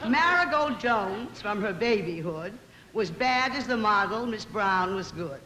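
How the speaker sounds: measured, sing-song verse reading; poem recitation. Acted. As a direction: recite it like a witty moral tale in rhyme.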